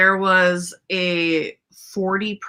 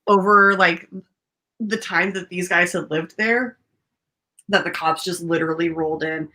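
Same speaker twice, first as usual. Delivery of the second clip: talking through hiccups. Real, not acted. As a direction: speak with hiccups catching. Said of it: "and now I have the hiccups".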